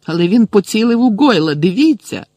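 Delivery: high, loud insistent protest; urgent accusation. A narrator's reading. Malfoy shows Snape Goyle's face, protesting loudly. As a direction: press the teacher to look.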